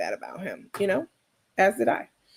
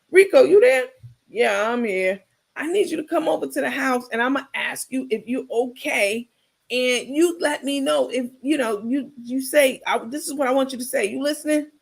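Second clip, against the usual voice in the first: Carmen coaching; 3 semitones higher than usual. Retold or imitated.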